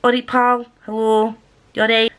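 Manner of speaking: Scottish-accented "Ori Pal"; friendly greeting in a Scottish accent. Shown as a demonstration. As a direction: demonstrate a casual Scottish hello. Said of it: "this is just a greeting".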